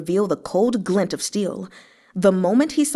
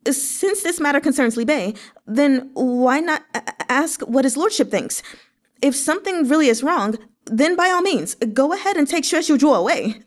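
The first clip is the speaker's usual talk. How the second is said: higher, strained, near crying; choked out; 6 semitones higher than usual. A narrator's reading. Xue Xiu Yi betraying his brother, choked and tearful. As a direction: force it out through fear. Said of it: "choked out".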